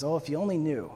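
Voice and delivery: soft, understated reply; gentle, not sharp. Acted. Jesus replying to the woman's sharp answer, gently. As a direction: answer softly without any bite. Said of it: "response back to her isn't sharp".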